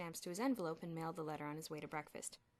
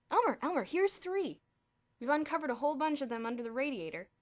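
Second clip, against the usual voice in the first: excited shouts; 7 semitones higher, 10 dB louder than usual. Acted. Crowd of boys shouting.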